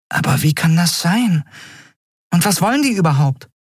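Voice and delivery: hoch, schnell, besorgt fragend; Nelen, unruhig. A narrator's reading. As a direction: eine kleine geflügelte Gestalt in Sorge. (Nelen fragt unruhig, viel höher)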